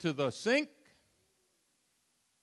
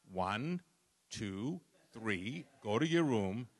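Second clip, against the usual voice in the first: mock gentle parent; 7 semitones lower, 7 dB quieter, slower than usual. Mocking soft modern parenting.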